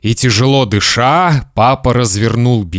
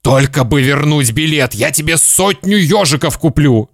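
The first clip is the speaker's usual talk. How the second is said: slightly strained, desperate promise; rasping father; 4 semitones higher than usual. Acted. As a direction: urge the boy with a touch of hoarseness. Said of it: "захрипел папа".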